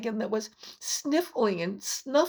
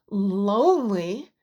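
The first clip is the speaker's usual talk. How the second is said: surprised question; 5 dB louder, slower than usual. Acted. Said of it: "Jules exclaimed".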